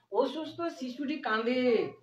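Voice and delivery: stretched-out sentence at half speed; slow model reading. Shown as a demonstration. Teacher introduces the next example sentence to students, slowly. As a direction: read each word out slowly.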